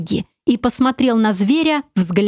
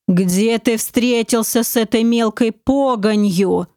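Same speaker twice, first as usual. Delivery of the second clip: rumbling dragon. Acted. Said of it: "пророкотал дракон человеческой речью".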